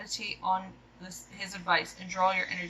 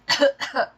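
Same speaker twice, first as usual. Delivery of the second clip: overacted death scene; 6 semitones higher, 8 dB louder than usual. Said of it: "spice stuck in my throat".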